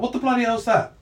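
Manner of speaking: high-pitched, alarmed guard voice; baffled guard blurting it out; startled guard. Acted. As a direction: play a guard spotting something odd. Guard notices an invisible intruder.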